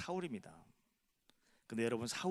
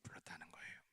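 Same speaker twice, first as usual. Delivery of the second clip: hushed whisper of the same phrase; a secret whispered to the congregation; 10 semitones lower, 18 dB quieter, faster than usual. Acted. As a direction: drop the voice to a breathy hush. Repeated line, dropped to whisper.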